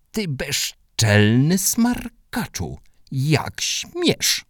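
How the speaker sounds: high, slow outraged scolding; furious neighbour. Acted. The neighbour rages at the rude boy, high and slow. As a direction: spit out the insult in outrage. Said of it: "krzyknęła sąsiadka".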